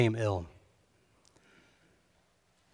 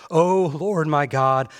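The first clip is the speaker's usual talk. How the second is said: slow, loud desperate cry; crying out to God; 5 semitones higher, 8 dB louder, slower than usual. A narrator's reading. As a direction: lift the voice in a pleading call. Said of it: "he cried to the Lord".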